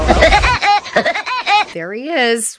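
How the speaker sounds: amused, laughing through the words; giggling while teasing. Retold or imitated. Spotting the neighbour down the street, laughing amusedly. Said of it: "and I go".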